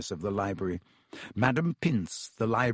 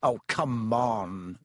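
impatient; much slower than usual. Acted. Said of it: "said Ron".

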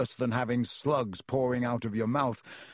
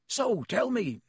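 curious booming giant; hearty gamekeeper asking; Hagrid voice; 11 semitones higher, slower than usual. A narrator's reading.

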